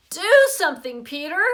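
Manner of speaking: loud high yell. Acted. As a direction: yell for help. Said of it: "Sheila yelled".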